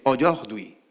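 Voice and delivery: "aujourd'hui" said the French way; French pronunciation. Shown as a demonstration.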